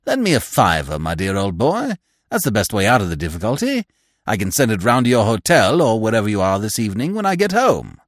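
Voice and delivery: lightly voiced hearty sponger; a hint of breezy old-chum voice; jovial stranger. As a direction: propose a loan as an old pal.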